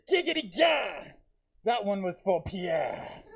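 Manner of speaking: hammed-up high triumphant grandpa; goofy grandpa voice. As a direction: crow it like a cartoon old man. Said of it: "And he goes".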